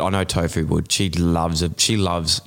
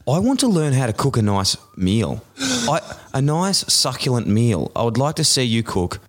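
higher-pitched, hammed-up demand; mock indignation; 4 semitones higher than usual. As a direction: plead your case theatrically. Acted demand to crying TV hosts.

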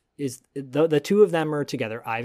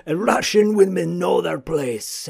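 laughing mock echo; 5 semitones higher, 6 dB louder than usual. Mock-echoing the sexist clip, laughing.

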